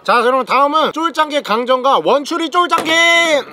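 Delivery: bursting with excitement, slowed; overexcited announcement; excited. Real, not acted. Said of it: "너무 신나가지고요".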